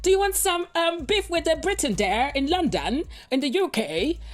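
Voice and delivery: mock British accent. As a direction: ask it in a posh-ish British accent. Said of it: "in my good Britain accent".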